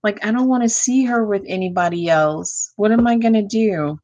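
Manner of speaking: acting out a man eaten up inside; frustrated. Tarot reader voices a man's inner feelings, frustrated.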